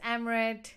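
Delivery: Amrit with a flat "am" opening; everyday name pronunciation. Shown as a demonstration. Speaker introducing their own name to viewers, everyday pronunciation. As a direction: say Amrit as "AM-rit". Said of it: "different ways of how my name's pronounced".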